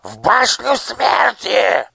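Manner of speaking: very high, loud, slow shriek; shrieking order. A narrator's reading. Nushrok shrieks at the guards. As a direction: shriek the order to seize him. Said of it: "завизжал Нушрок".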